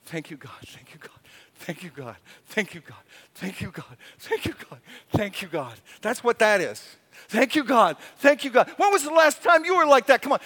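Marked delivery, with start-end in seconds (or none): 0.1-5.7 softer whispered thanks; hushed prayer. Shown as a demonstration. Preacher murmuring thanks to God, hushed. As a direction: breathe it like a private prayer. Quiet awed repeated prayer.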